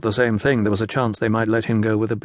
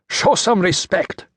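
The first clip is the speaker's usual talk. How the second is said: slow, higher roared order; 8 semitones higher, slower than usual. A narrator's reading. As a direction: bellow it out slowly at the prisoner. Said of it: "muffling the roar of".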